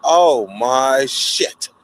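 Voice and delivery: slow, stunned disbelief; shocked. Retold or imitated. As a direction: let the word hang in dread. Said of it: "I'm like this".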